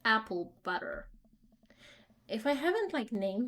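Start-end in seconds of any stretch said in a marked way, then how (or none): 0.1-1.1 put-on loosely held amateur Swedish accent; attempted Swedish accent. Selling goods from a car trunk, loose Swedish accent. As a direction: keep up a rough Swedish accent. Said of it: "I can attempt a Swedish accent".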